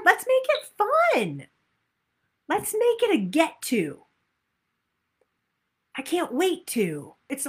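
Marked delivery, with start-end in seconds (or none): 0.0-4.0 bright lift on fun, high and bouncy; excited. Shown as a demonstration. Coach urging the group to enjoy moving, upbeat. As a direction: sell the fun like a cheerleader.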